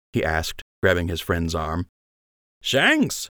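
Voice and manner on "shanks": high, teasing smirk in the voice; smug. A narrator's reading. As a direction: needle him with a grin. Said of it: "Lund said with a smirk".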